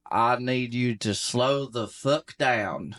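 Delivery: slow Southern drawl; Southern accent. Acted. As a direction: answer as another Southerner, dragging it out slowly. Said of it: "non-mutually intelligible Southern accents".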